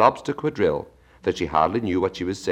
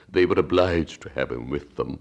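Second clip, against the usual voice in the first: Mock Turtle voice. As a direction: drag it out like a sad old turtle.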